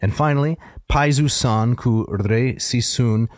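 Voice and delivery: rolling dactylic verse; dactylic hexameter recitation. Shown as a demonstration. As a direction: recite it in a measured Greek chant. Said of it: "this is in Dactylic Hexameter".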